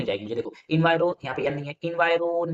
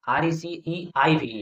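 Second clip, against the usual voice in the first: slow spelling; much slower than usual. Shown as a demonstration. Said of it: "देख सकते हैं".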